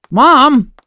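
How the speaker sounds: high, loud complaint to a parent; annoyed yell. A narrator's reading. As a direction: yell accusingly, pitch shooting up. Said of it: "I yelled".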